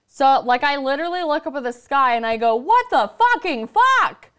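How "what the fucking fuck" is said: much higher, louder, slow cry of disbelief; exasperated outcry. Retold or imitated. After being rear-ended, crying out in disbelief. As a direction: throw it up at the sky. Shouting at the sky after crash.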